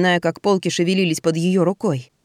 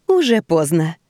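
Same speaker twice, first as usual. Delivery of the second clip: kindly. Acted. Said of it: "доброжелательно сказала Эсмеральда".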